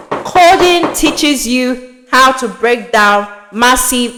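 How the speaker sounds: distorted, crackling noisy line; words smeared by fuzzy distortion; fuzz distortion. Real, not acted. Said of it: "I'm sorry for the distorted noise".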